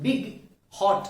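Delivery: बिग said in one beat; single syllable. Shown as a demonstration. Teacher showing students a one-syllable word, बिग in one beat. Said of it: "बिग बोलने के लिए एक बार".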